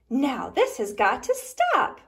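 a hint of a cross duck; exasperated quack. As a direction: put your foot down like an annoyed duck. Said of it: "quacked Sally".

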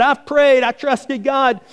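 very high, insistent declaration; mock-defiant old man; acted defiant holler.

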